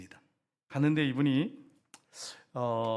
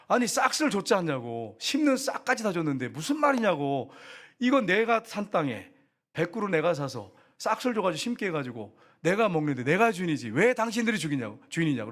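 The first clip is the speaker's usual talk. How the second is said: indignant scolding. Retold or imitated. Missionary arguing with locals.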